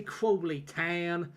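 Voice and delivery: Crawley Town said very slowly; Crawley accent, drawn out. Shown as a demonstration. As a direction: stretch out the local name slowly. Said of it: "It's nice and easy".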